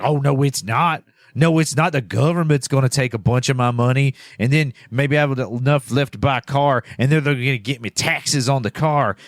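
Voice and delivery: the inmate ranting to the guards about taxes; mock ranting. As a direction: rant and rave about taxes, hammed up. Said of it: "he's just ranting and raving".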